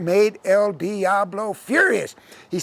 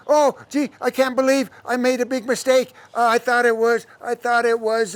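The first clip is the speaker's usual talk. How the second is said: raised-pitch mock regret; feigned apology; 4 semitones higher than usual. Devil excusing kicking the cat, higher and falsely sorry. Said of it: "And El Diablo said".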